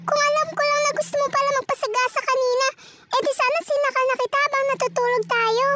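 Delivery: scolding friend. Acted. Friends scolding Lisa, fast and high. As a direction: scold her for nearly dying.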